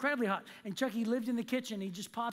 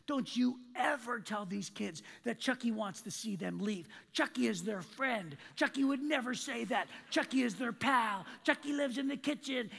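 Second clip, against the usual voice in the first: retold scolding rant. Manager chews out costumed employee over announcement, mock scolding rant. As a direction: imitate a manager laying into you, rising as it goes. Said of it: "she just screamed at me".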